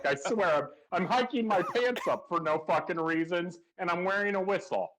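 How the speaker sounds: a hint of a gruff football coach; lightly voiced pep-talk coach, laughing. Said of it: "he sounds like a fucking football coach".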